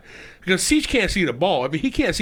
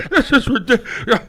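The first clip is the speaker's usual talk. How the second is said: high, loud complaining voice with a laugh; whiny teammate impression; 9 semitones higher, 6 dB louder than usual. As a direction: imitate a whining lineman, laughing. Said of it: "you talk like that too".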